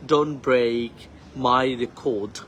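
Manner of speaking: "Don't break my record" with English "break"; slow and careful model sentence; correct pronunciation. Shown as a demonstration. Teacher models the right way.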